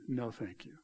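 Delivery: low, very soft polite refusal; Jonah's refusal. Acted. Jonah says no to God, quietly declining. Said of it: "Jonah is saying".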